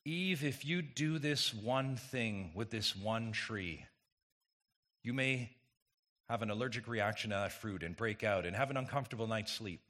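quiet, dismissive mock warning; downplay the threat, softly; mock trivializing. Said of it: "and I say it that way".

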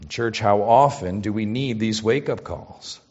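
normal talking voice

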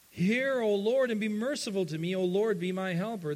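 loud, high desperate plea; heartfelt cry. Retold or imitated. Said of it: "unleashes a heartfelt cry".

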